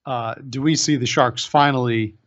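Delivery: grave documentary narration; nature documentary. Pretend. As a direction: narrate it like a wildlife film. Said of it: "a P S A".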